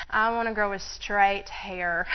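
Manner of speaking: slow, deliberate retold prayer; emphatic request. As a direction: spell out the wish slowly, word by word.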